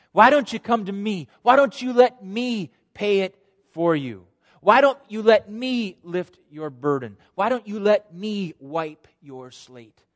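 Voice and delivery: loud, high, drawn-out appeal; impassioned invitation. Acted. Jesus invites the guilt-burdened to come, impassioned and urgent. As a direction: plead with the burdened, stretching the key words. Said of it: "that's the invitation that Jesus gives".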